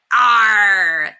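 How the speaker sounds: pirate ignoring the governess, yelling. A narrator's reading. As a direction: roar it at the crowd. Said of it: "the pirate yelled".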